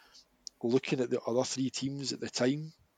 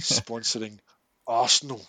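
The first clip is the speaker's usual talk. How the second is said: disgusted; 6 dB louder than usual. Real, not acted. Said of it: "I love the way you say their name".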